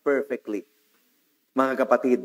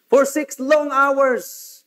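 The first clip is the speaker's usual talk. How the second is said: drawn-out emphasis; 7 semitones higher, 4 dB louder, much slower than usual. Acted. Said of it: "preacher dwells on the suffering".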